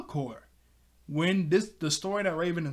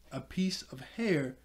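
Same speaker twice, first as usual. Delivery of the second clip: whisper. Acted. Villain whispers creepy line.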